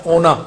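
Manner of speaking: ਉਹਨਾਂ as plain "o-na", n not held; wrong single n. Shown as a demonstration. Teacher showing what not to say, ਉਹਨਾਂ with single n. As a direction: say ਉਹਨਾਂ with one light n. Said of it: "ਉਹਨਾਂ ਨਹੀਂ ਕਹਿਣਾ".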